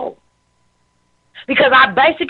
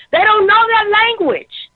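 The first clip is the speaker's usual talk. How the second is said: choked up; 7 semitones higher than usual. Real, not acted. Moved to emotion speaking about her people, high strained plea. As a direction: voice rising as feelings take over. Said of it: "now I'm emotional".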